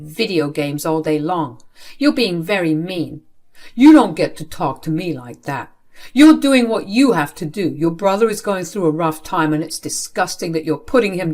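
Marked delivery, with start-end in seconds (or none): 3.7-7.7 loud, stern father's rebuke; angry scolding. Acted. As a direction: snap back hard at her. Father scolds daughter angrily.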